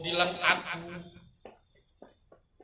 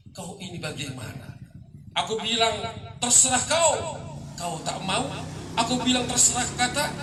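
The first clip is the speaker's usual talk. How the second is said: rising and falling dramatic recital, with loud accusing peaks; poem recitation; 4 dB louder than usual. Acted. Poet reciting to an audience, dramatic poetry reading. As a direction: declaim each accusation, then drop into the weary refrain.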